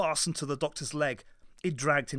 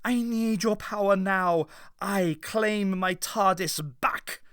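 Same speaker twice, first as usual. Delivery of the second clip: commanding; 6 semitones higher, 3 dB louder than usual. A narrator's reading. Doctor demands his power.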